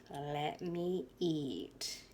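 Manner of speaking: very slow, drawn-out plea; body begging to eat. Retold or imitated. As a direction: stretch it out like a starving body. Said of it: "my body was like".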